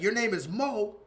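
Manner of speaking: mock outraged customer. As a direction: sneer at the name in disbelief. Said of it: "He's like".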